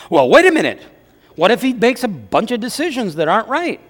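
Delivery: lightly acted protest, bursting in loud; objecting wife. Wife worried about following husband's decisions, mock protest. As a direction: cut in as a mock-indignant wife. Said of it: "The wives will say this".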